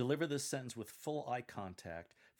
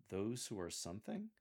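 "something" rising into a puzzled question; amused bemusement. Shown as a demonstration. Coach demonstrates the line for lectors, amused and bemused. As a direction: lift "something" as if bewildered. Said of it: "your tone and facial expression of amusement and bemusement".

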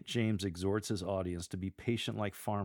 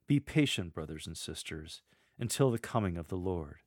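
informal address with a short break after "sisters"; informal, brief pause. Shown as a demonstration. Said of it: "Insert a brief pause after brothers and sisters and use an informal tone".

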